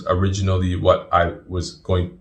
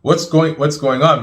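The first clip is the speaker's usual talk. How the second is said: pitched-up, stammered confusion; bewildered; 6 semitones higher, 4 dB louder than usual. Retold or imitated. New convert caught in the mosque quarrel, bewildered. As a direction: repeat it in startled bafflement.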